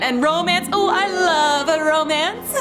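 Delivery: ordinary delivery, nothing marked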